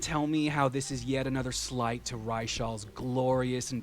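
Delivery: sly mocking jab at his pride; teasing. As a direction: needle him with a wicked grin. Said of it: "and she goes".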